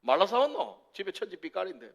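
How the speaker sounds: lightly put-on Gyeongsang accent; mild gruff Gyeongsang brush-off; a hint of a Gyeongsang man grumbling over a gift; Gyeongsang dialect man. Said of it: "경상도 남자들 이게 잘 안 되는 거예요".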